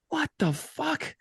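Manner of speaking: high, slow mock outrage; retold pissed-off outburst. General manager comes out of the bathroom, imitated high-pitched outrage. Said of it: "he was pissed about it".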